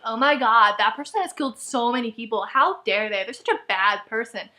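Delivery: low-pitched mock outrage; put-on disapproval; mock judgmental heroine. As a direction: imitate a scandalised, judging heroine. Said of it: "she would judge people".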